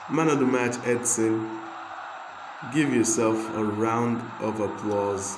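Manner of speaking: loud, triumphant cup win celebration; excited cheer. Real, not acted. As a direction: shout it out like you just won the final.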